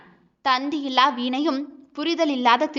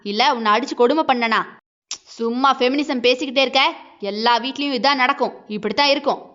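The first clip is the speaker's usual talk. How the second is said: angry husband. Acted. Husband shouting down his wife on the phone, heated. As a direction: shout her down.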